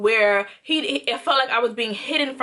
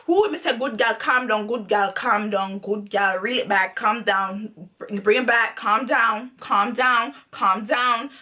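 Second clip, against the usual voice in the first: self-soothing; 3 semitones lower than usual. Retold or imitated. Talking herself down from reacting.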